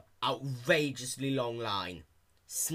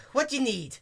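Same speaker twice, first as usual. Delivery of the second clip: high, nasal grumpy clerk; nasally; 14 semitones higher, 7 dB louder than usual. A narrator's reading. Mayor clerk greeting Dash, high nasal annoyance. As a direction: whine it through the nose. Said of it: "the mayor asked nasally".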